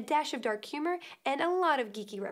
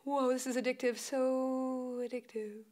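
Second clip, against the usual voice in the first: awed; slower than usual. Retold or imitated. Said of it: "and I was like".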